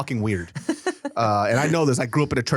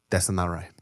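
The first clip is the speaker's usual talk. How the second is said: low mock Korean accent; imitated Korean accent; 6 semitones lower, 4 dB quieter than usual. Storyteller imitates a Korean guy objecting, Korean accent.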